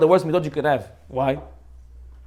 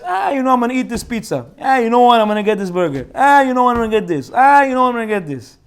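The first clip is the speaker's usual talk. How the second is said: each "ah" jumps up higher, then drops away; wishy-washy waverer; 4 semitones higher than usual. Acted. Rabbi mimicking an indecisive person picking food, wavering. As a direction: keep changing your mind, starting high on every new whim. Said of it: "Wishy-washy means basically like this".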